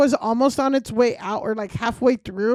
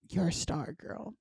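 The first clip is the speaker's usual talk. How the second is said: catcaller; 7 semitones lower, 14 dB quieter than usual. Retold or imitated. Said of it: "this guy's like".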